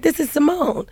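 mildly exasperated retold reply; retold insistence. Insisting after caller disbelieves her.

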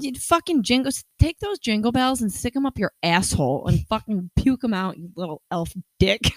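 heated, comic rant; built-up rage. Real, not acted. Ranting to co-host about November Jingle Bells, built-up rage. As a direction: let the pent-up Christmas rage spill out. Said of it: "We've got some built-up rage".

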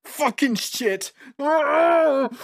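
very high, drawn-out anguished cry; swearing that breaks into a long wail; panicked outcry. Acted. Trapped man cries out in panic.

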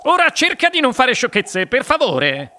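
high-voiced motherly chiding; coaxing mother. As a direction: gently rein in a daughter. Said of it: "disse sua madre".

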